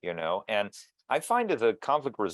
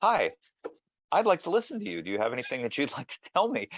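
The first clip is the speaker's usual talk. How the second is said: bright, much higher friendly greeting; cheery door-knocker; 5 semitones higher, faster than usual. Retold or imitated. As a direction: play the eager volunteer at the door, pitched up high. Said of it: "knocked on people's doors and said".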